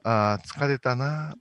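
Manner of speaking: slow, weary sigh of a worker; tired office lady. Shown as a demonstration. Director demos a tired OL line for the actress, weary. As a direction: act a worn-out office lady, drawn out. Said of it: "ちょっと疲れたオーエル風".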